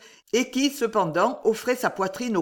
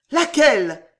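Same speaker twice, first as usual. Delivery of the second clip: higher, louder eager gasp; gasp of wild joy; 5 semitones higher, 6 dB louder than usual. A narrator's reading. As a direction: gasp it out with frantic hope. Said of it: "dans un véritable râle de joie effrénée".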